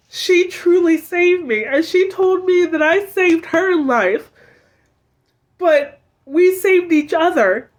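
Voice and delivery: tearful, voice lifted and strained, fighting back sobs; crying. Real, not acted. Vlogger thanking the friend who saved her, through real tears. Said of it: "I did not mean to cry like this".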